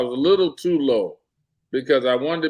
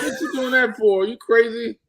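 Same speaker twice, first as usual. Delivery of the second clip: high, disbelieving mock challenge; incredulous retort; 9 semitones higher than usual. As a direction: toss the question back in disbelief. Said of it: "I'm like".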